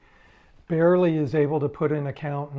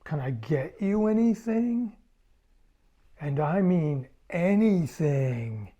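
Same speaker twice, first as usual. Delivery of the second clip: lightly voiced rock star host leaning in, teasing; the rock star offering; 2 semitones higher than usual. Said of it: "he kind of bends over and goes".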